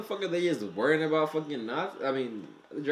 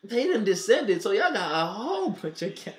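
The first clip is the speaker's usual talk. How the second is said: hyped laughing; 7 semitones higher, 4 dB louder than usual. Real, not acted.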